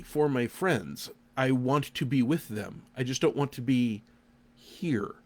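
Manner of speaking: measured mock slam-poetry delivery with weighty pauses; slam poetry recital. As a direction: recite it like off-the-cuff slam verse, pausing between lines. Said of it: "doing my own off-the-cuff slam poetry".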